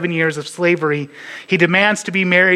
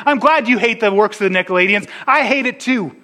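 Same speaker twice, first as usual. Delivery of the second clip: raised, emphatic quoted agreement; emphatic approval; 6 semitones higher than usual. Retold or imitated. Preacher quoting God to the church in Ephesus, emphatic approval. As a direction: voice hearty agreement, pitched up.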